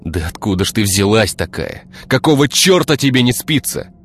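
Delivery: swearing. A narrator's reading. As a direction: snap at the intruder. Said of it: "выругался Игорь".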